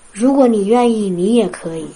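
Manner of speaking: gentle comforting voice. Retold or imitated. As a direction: ease it out gently with love. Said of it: "非常轻柔的声音，带着安慰". (轻柔安慰的声音)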